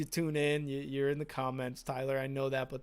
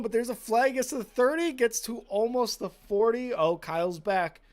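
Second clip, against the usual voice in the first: excited play-by-play; 5 semitones higher, 6 dB louder than usual. Real, not acted. Live kick return commentary.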